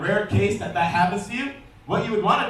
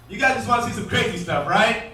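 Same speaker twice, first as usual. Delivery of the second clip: hyping up the crowd; 3 semitones higher than usual. Real, not acted. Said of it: "hyping the crowd".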